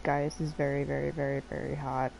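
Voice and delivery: softly confessing a crush on Gaius to chat; hushed confiding. Shown as a demonstration. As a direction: lean in and say it softly like a secret. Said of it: "But trust me".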